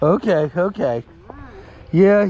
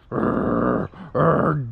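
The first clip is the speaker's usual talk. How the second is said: dog growl imitation; 7 semitones lower than usual. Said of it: "walk by the other dog going".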